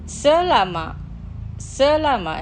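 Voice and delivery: careful, measured vocabulary model; slow pronunciation. Shown as a demonstration. Teacher models words for listeners to repeat, slowly. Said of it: "Los pronunciaré lentamente".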